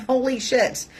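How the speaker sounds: stunned wonder; awed exclamation. Real, not acted. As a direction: gasp it out in amazement. Awe at childbirth memory.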